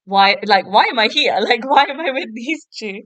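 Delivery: put-on fed up with the two boys; exasperated. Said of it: "Leah's disinterested face".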